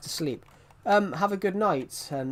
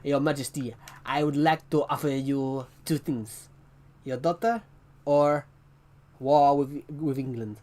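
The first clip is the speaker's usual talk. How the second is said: lightly voiced formal envoy; a hint of a pompous envoy; British envoy. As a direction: address the king like a stiff British envoy. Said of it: "the British guy trying to ask the French king".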